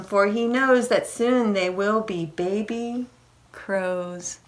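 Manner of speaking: put-on measured storybook reading to children; lilting read-aloud for little ones; picture-book reading. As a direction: read the rhyme aloud, lingering on line endings. Reads rhyming picture book aloud.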